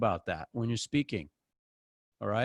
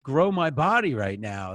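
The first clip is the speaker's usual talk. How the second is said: mock exasperated gripe, pitched up; 4 semitones higher, 3 dB louder than usual. Gym-goer griping about the love songs, exasperated. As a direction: complain over the music, exasperated.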